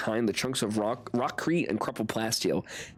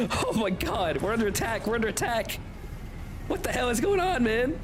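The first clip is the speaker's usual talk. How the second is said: mock panic; 8 semitones higher than usual. Ship under attack, mock panic.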